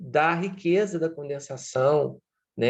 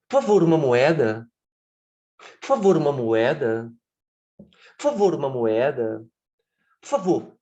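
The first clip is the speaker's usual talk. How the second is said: louder, pleading beggar voice repeated; homeless man begging; 4 dB louder than usual. Retold or imitated. Homeless man asking every passer-by for a coin, loud pleading. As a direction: ask passers-by for a coin, over and over. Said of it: "isso é a clássica estereotipia".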